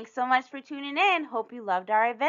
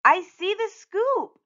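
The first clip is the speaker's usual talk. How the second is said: put-on high, louder voice of a delighted child; thrilled little-kid exclamation; excited shout; 8 semitones higher, 4 dB louder, slower than usual. A narrator's reading. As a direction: cry out with sudden discovery. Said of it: "shouted Usha".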